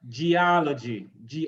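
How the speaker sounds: Geology with the weight on "ol"; geOLogy, clearly stressed, said twice. Shown as a demonstration. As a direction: model Geology, leaning on the second syllable. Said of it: "So the same for all of these".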